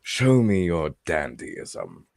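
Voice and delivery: slow, loosely Scottish character voice; Scottish-tinged delivery, unhurried; attempted Scottish accent. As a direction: try a Scottish accent, drawing the words out. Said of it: "I can't do a Scottish accent".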